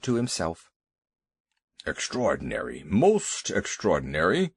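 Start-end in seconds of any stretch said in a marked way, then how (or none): 1.9-4.5 lightly voiced elephant. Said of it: "he said".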